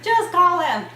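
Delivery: loud, high retold command; fiance's insistence, acted high and loud; imitated exasperated urging. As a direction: push it out as mock impatience. Acts out exasperated fiance urging her.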